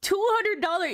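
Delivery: high, slow, drawn-out outraged yell; incredulous slow yell. Real, not acted. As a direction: stretch the price out in disbelief. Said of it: "I'm sorry for yelling into the mic".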